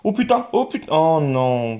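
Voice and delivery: real letdown at a bad pull, groaning out the swears; dismayed cry. Real, not acted. Gamer reacting to a bad crystal pull, real dismay.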